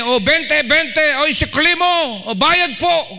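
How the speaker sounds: high, busy calling-out voice; fare caller. Acted. Bus crowd calling for fares, high-pitched hawking shout. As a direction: call fares over a noisy crowd.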